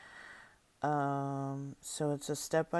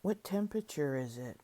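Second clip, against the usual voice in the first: measured step-by-step prompts with long silences between; guided imagery reading. Acted. Leader guiding listeners through an inner peace process, deliberate instructional reading. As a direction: read each prompt out clearly, then leave room to feel.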